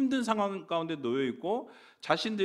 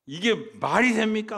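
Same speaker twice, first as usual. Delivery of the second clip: raised, mildly indignant challenge; imitated rebuke; 5 semitones higher, 4 dB louder than usual. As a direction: act out a scolding retort, a little higher. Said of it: "하고 책망하는 거예요".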